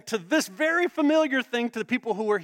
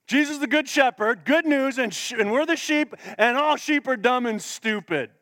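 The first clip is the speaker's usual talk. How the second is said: mocking preacher; 3 semitones higher than usual. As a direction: lightly send up a pulpit cliché. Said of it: "this is how preachers go about this".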